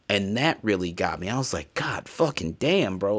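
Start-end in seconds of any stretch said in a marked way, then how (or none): 1.7-3.2 moved exclamation. Retold or imitated. Moved by Kratos scene.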